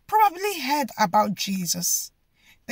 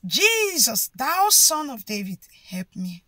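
screaming. Retold or imitated. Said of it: "he was screaming".

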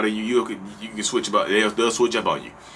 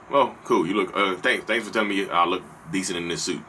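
grudging thanks; 3 semitones lower than usual. Retold or imitated. Grudging reply to compliment.

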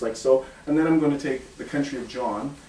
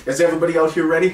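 showman shout; 3 semitones higher, 5 dB louder, much faster than usual. Acted. Magician rousing the crowd.

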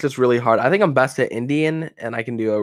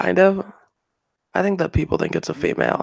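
higher put-on feminine voice; 6 semitones higher than usual. Shown as a demonstration. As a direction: do a mock feminine voice. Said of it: "do a really good feminine voice".

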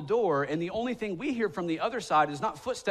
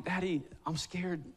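put-on whining toddler. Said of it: "I just remember him whining".

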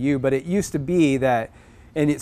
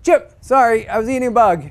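higher, louder casual apology; sheepish little bird; apologetic bird voice; 9 semitones higher, 6 dB louder than usual. Retold or imitated.

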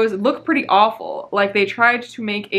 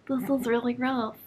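unvoiced hushed whisper; soft whispered dismay; 3 semitones higher, 7 dB quieter than usual. Real, not acted. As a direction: breathe it out as a whispered aside. Whispered aside on grim book.

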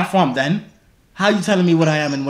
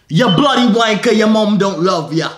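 loud, higher mock-British taunt; put-on British insult; 4 semitones higher, 4 dB louder than usual. Man claiming to be from the UK insults a stranger, mock British accent. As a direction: hurl it in a hammed-up British accent.

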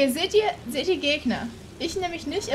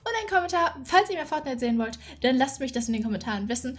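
upbeat channel sign-off; YouTuber outro; 2 semitones higher than usual. Acted. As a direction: wrap up the video for viewers. Video outro.

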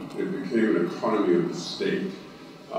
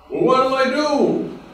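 high, loud desperate plea; a mock-frantic man clinging to a tree; pleading; 7 dB louder, slower than usual. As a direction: beg for help, voice pitched up in panic. Man asks God.

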